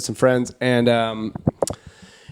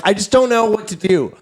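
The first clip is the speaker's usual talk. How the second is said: helpless plea; 7 semitones higher than usual. Retold or imitated. Acts out helpless call to dispatcher.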